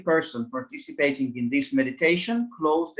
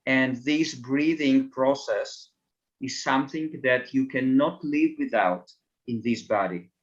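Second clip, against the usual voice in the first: guided meditation; 2 semitones lower than usual. Acted. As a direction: ease listeners inward with measured phrases.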